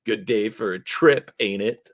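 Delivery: loud, high opening hail; twitchy street hustler greeting a customer; twitchy orc dealer. Acted. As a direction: hawk it like a jumpy street dealer. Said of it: "The orc looks twitchy".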